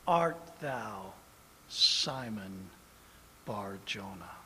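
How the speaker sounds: Jesus tenderly blessing Simon; soft blessing. Acted. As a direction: bless him gently.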